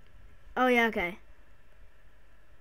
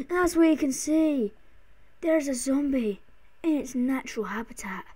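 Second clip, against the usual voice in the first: nature documentary. Pretend. Parodies a wildlife film.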